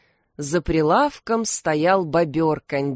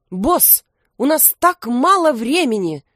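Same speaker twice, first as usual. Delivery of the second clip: indignant; 7 semitones higher, 4 dB louder than usual. A narrator's reading. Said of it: "возмутился Крембо".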